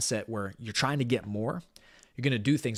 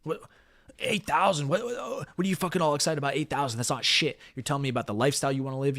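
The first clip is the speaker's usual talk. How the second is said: a boss scoffing at a small number; infuriated; 2 semitones higher than usual. Retold or imitated. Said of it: "infuriated, pissed".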